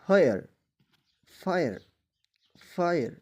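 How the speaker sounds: فائر said loud with a long ai, falling each time; repeated pronunciation drill. Shown as a demonstration. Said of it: "ای کی تلفظ انہوں نے ادا کی". (فائر کی بار بار مشق)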